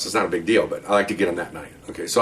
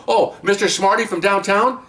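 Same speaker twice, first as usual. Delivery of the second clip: higher, slow sarcastic sneer; sarcastic jab; 10 semitones higher, slower than usual. Retold or imitated. Cop sneering about the downtown officer, slow sarcasm. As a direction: drawl it out with contempt.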